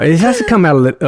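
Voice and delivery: Australian accent slipping toward British; attempted Australian accent. Shown as a demonstration. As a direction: have a tentative go at an Australian accent. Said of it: "you can do your Australian accent".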